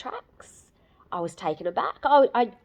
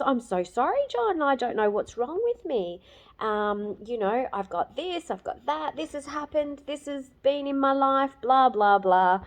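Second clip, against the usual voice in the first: higher, teary rush of sorry to John; apologising through tears, embarrassed; retold tearful apology; 7 semitones higher than usual. To John after her rant, a retold teary apology. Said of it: "and I started crying".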